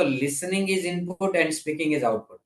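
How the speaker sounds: very slow, word by word; deliberate classroom pacing; slow emphatic teaching. Shown as a demonstration. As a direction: spell out the rule slowly for learners. Teacher repeats the key rule.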